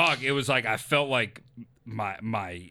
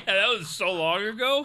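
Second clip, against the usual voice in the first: higher, through a laugh; laughing recollection; 5 semitones higher than usual. Real, not acted. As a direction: laugh the words out. Laughing at co-host's reminder.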